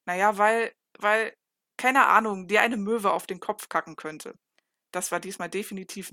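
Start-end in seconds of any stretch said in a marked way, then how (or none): 0.1-4.4 louder, tripping over weil, weil; flustered stammer. A narrator's reading. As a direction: grab for any excuse, rattled. Flustered excuse after a kiss. (aufgeregt und laut nach Ausreden suchend)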